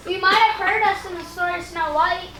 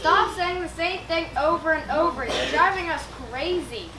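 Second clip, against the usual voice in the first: exasperated father; 2 semitones lower than usual. Acted.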